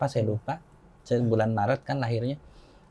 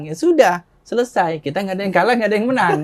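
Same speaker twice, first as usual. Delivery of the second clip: raised, louder retold dismissal; mock impatient wrap-up; 8 semitones higher, 6 dB louder than usual. Convert declaring the debate a draw, mock impatient. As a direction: hurry to close the argument, playing it up. Acted attempt to end the debate.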